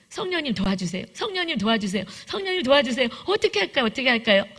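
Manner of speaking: 1 desperate prayer. Retold or imitated. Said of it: "그때 막 기도했어요".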